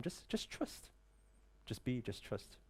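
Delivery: dropped to a near whisper; a quiet, intimate reassurance; hushed trust. Real, not acted. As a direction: breathe it out softly, almost unvoiced. Soft reassurance to the audience.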